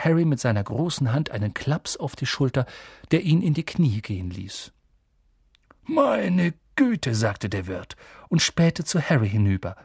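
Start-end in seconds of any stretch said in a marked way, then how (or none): 5.8-7.1 high, drawn-out gasp of wonder falling away; stunned, raised-pitch exclamation; astonished. A narrator's reading. Landlord recognising Harry in the pub, astonished.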